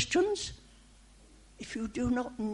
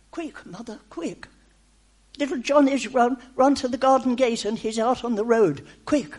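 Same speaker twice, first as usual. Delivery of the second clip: lightly acted alarm, building louder; urgent warning; 4 dB louder than usual. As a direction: warn a mother her child is in danger.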